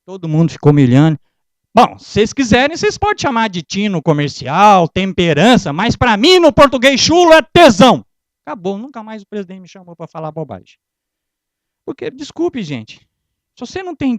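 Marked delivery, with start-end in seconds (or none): 1.8-8.0 louder and louder up to tesão; rising emphatic reveal; building punchline. Acted. Punchline to the audience.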